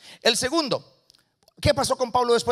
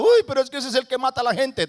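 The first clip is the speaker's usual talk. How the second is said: mild acted alarm, slightly raised; miedo fingido; 3 semitones higher, 4 dB louder than usual. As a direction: object like a worried disciple, lightly acted. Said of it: "el hombre entra en miedo". (con un leve miedo fingido)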